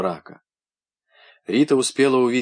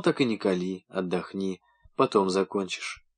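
tender; 3 semitones lower, 5 dB quieter than usual. Acted. Natasha tending him gently.

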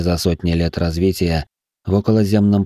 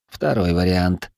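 slow, flat and detached; dispassionate; slower than usual. Acted. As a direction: choose without any feeling. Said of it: "бесстрастно выбрал командор".

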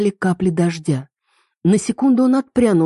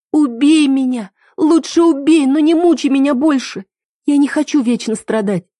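put-on a tormented girl crying out in the rain; anguished plea; 9 semitones higher, 4 dB louder than usual. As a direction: beg him to end it. Heroine begs him to kill her.

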